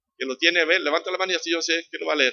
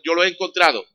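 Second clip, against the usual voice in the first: excited; 5 semitones higher, 6 dB louder than usual. Acted. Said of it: "lo que dijo la mujer".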